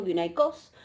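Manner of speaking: guineicos stressed on the last syllable, COS; acento final. Shown as a demonstration. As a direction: land the stress at the end of guineicos. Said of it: "el acento en el genitivo llegó hacia el final". (guineicos con acento en la última sílaba, COS)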